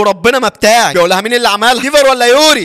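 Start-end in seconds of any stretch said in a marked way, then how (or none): 0.0-0.9 higher, urgent protest; urgent denial. Retold or imitated. Accused girl protesting to her guardian, urgent denial. 1.2-2.6 high, heated questioning; angry interrogation. Retold or imitated. Guardian grilling the girl over the test, angry.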